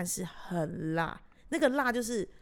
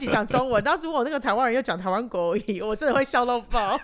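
laughing loudly while talking; cracking up mid-sentence; 3 semitones higher, 9 dB louder than usual. Real, not acted. Laughing at imagined accent mix.

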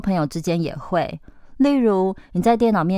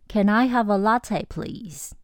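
polite request; 4 semitones higher, slower than usual. Shown as a demonstration. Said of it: "我们再试一次".

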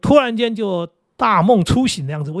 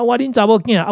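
Hokkien phrase; 5 semitones higher than usual. Retold or imitated. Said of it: "用那个闽南话跟我女儿讲话".

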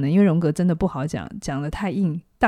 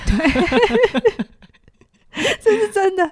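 trying not to laugh; 13 semitones higher, 4 dB louder, much slower than usual. Real, not acted. Host laughs at listener complaint.

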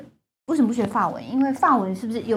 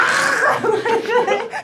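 throat-clearing sound; 13 semitones higher than usual. Shown as a demonstration. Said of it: "我一直发出那声音耶".

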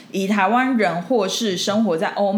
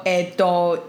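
long stretched えどい, slow and hesitant; drawn-out hesitation; much slower than usual. Retold or imitated. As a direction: stretch えどい out as if still thinking. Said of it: "就拉长音啊".

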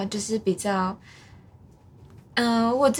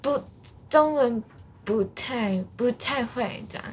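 put-on Japanese accent. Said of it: "一段日本腔那样子".

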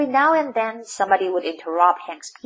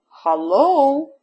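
loud, raised hello; shouted greeting; 4 semitones higher, 6 dB louder than usual. A narrator's reading. Tortoise greeting the cactus, shouting. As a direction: call out hello, pitched up. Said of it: "shouted the tortoise".

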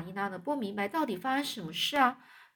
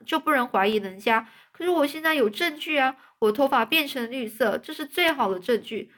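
dejected; 5 semitones higher, 4 dB louder than usual. Acted. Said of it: "十分颓丧地说".

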